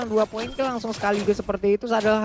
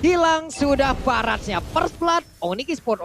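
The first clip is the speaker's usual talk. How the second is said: hyped esports caster; 4 semitones higher than usual. Acted. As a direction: call the kill like it's huge. Caster calls first blood.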